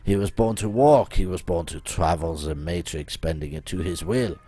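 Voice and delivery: put-on self-important French-accented mystic. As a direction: boast of yourself in a theatrical French accent. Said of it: "my accent".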